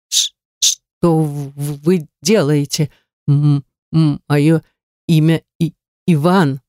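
slow halting stutter on the first sounds; a frightened man stuttering at a stranger. A narrator's reading. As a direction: trip on "в-" and "И-" as a nervous stammer. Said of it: "логоневризм".

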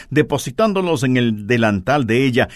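ordinary delivery

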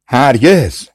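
narrated shout. A narrator's reading. Two brothers refuse the witch's demand together, mild shout. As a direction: call it out as a storyteller would. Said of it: "دو برادر با هم فریاد زدند".

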